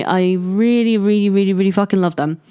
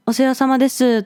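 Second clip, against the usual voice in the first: lightly voiced polite shop clerk, quick and a bit higher; a quick, higher hint of a formal store greeting; polite clerk Japanese; 4 semitones higher, faster than usual. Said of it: "the very formal Japanese".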